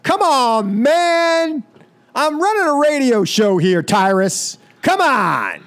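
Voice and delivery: high, pleading mock rant; mock exasperation. Host scolding no-show Tyrus over his radio show, mock exasperated. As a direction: protest up high, hamming up the outrage.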